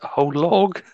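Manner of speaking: unvoiced shocked whisper; incredulous whisper. Real, not acted. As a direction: breathe it out in disbelief. Shocked at garlic bread.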